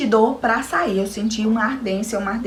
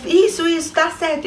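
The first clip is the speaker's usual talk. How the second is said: higher, louder "isso, isso" like an excited nurse; cheering encouragement; 8 semitones higher, 3 dB louder than usual. Retold or imitated. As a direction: cheer her on at the final push. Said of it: "quando ela falou". (a enfermeira vibrando: isso, isso, tá certo)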